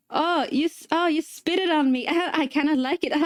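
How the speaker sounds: high, giggly imitation of the client; imitated giggling.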